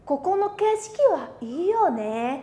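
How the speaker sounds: slow, admiring and drawn out; with feeling. Shown as a demonstration. Teacher modelling an emotional reading for students, slow and lingering. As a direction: let the words linger over the view. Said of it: "học theo cái cảm xúc đây của mình".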